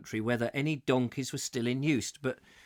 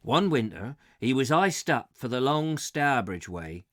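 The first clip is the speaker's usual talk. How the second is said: light West Country boatman voice; West Country accent; 4 dB louder than usual. Acted. Boatman recounting the iced-up winter, West Country accent. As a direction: West Country storyteller's lilt. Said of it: "I'm doing it in a West Country accent".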